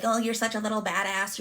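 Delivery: mock cutesy compliment, lightly done; patronizing teasing. What grandfather did not mean, patronizing teasing. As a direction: imitate someone teasingly belittling with praise. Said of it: "Not as in, like".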